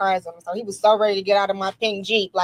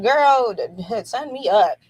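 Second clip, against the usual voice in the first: eager retold reply; 3 semitones higher, 5 dB louder, slower than usual. Woman retelling her reply about a Wrangler club, eager. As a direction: act out jumping at the offer. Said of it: "I was like".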